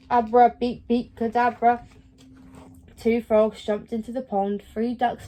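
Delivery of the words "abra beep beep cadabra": loud spell with beeps in it; shouted spell. Acted. Winnie the robot shouts her spell with beeps mixed in, loud. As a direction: cast the spell at full voice.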